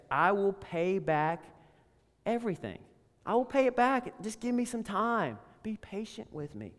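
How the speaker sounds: quiet, fading plea, pitch rising then dropping away; the servant begging the king, softly pleading. Acted. Debtor servant begs his master, voice sinking to a hush. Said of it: "he begged".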